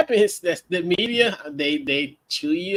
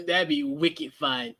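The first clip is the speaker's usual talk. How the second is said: slow, lightly mocked Boston accent; a touch of Boston; 4 dB quieter, slower than usual. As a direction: draw out a playful Boston phrase. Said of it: "that accent is too strong".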